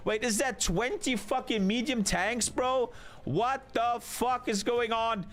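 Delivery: stunned disbelief. Real, not acted. Caster stunned by tank spam.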